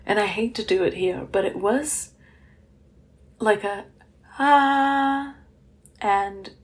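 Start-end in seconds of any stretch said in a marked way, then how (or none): 4.4-5.3 musical scream. Shown as a demonstration. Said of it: "that is how I scream".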